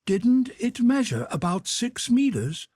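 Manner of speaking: lightly voiced eager young servant; Conseil voice. A narrator's reading.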